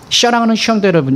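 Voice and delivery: quick mimicry of a lisping preacher; short-tongued pulpit greeting, rattled off; short-tongued pastor. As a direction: imitate slurred sibilants, s turned to sh. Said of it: "이렇게 얘기하신다고요".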